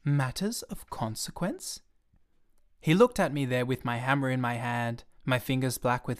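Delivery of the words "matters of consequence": slow stunned repeat; thunderstruck. Acted. Little prince stunned by the pilot's answer, slow disbelieving echo.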